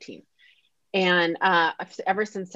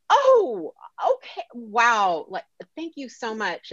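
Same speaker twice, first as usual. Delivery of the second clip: forced thanks; 6 semitones higher, slower than usual. Retold or imitated. Faking thanks for unwanted gift.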